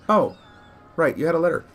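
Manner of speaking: high-pitched shopkeeper remembering; suddenly remember, high and hoarse; hoarse feminine voice. Acted. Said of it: "in a very hoarse, uh, but still feminine voice".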